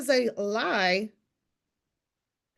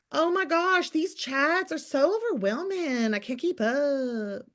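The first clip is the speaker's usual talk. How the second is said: high, drawn-out whiny mock voice; mock the complainers in a high whine; lightly whiny mimic of a struggling poster; 4 semitones higher than usual. Mocking overwhelmed complainer.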